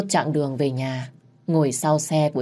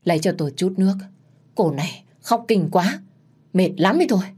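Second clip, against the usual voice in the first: faint rasp; 3 semitones higher than usual. Acted. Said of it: "thều thào nói với tôi".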